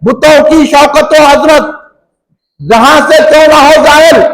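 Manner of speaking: reciting poetry from the pulpit; recited verse. Acted. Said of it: "हमारे हजरत क्या लिखे".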